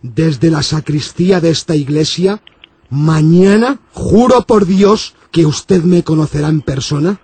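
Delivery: solemn priest. Acted. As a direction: swear it gravely from the sacristy. Low solemn priest vow.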